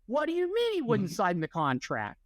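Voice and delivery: indignant, speeding up by the end; mock yelling boss. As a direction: imitate a toddler playing an irate agent. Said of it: "He's yelling at his, at assistants".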